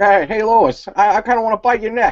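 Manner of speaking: high-pitched animated cartoon sitcom dad voice. Joking about a vampire version of Peter Griffin: Peter Griffin voice. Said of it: "Strigoi Peter Griffin".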